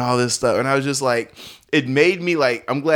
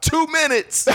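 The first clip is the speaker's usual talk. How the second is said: high-pitched imitation of a shout; retold yell pitched way up; mock heckler yell; slower than usual. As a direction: call it out like a heckler, without full volume. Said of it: "this guy yells out".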